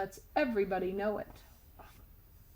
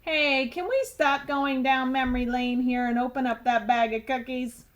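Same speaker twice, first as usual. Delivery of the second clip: loud tooth; 3 dB louder than usual. Acted. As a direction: blurt it across the classroom. Tooth interrupts.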